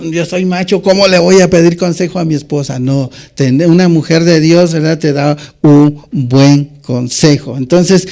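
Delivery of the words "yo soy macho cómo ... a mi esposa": lightly voiced scoffing macho, quick on the question; mock the proud husband's boast; proud macho man. Preacher mimics a proud husband refusing advice, mild mock swagger. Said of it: "tienes el orgullo como hombre".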